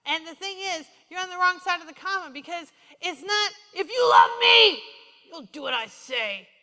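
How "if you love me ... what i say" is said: loud shouted threat, slow and demanding; mock harsh command; harsh commanding God. Shown as a demonstration. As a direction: bark it like a stern taskmaster. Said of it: "You ever hear Jesus talk like that?".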